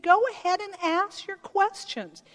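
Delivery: Jesus inviting questions, open and encouraging. Retold or imitated. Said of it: "He said".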